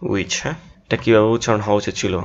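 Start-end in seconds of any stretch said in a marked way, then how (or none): 0.1-0.3 "Which" said softly as u-ich; usual pronunciation. Shown as a demonstration. Teacher showing how we say it, usual pronunciation. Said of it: "আমরা কীভাবে উচ্চারণ করি".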